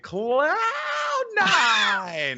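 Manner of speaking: high, loud, strained announcer shout with gaps; straining shout. Retold or imitated. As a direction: yell the name over a roaring crowd. His voice failing in the arena.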